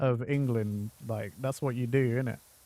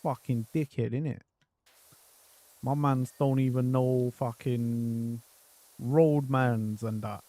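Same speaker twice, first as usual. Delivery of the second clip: Jamaican-London slang. Retold or imitated. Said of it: "Jamaican, yeah?".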